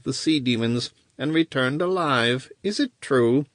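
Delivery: lightly voiced scheming wizard. Wizard questions Coran.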